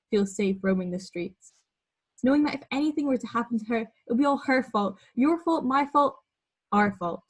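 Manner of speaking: emphatic, rhythmic performed poem; slam poetry recitation. Acted. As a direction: punch out each listed item like a slam poet, with pauses between phrases. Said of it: "I'm gonna read you out one of my poems".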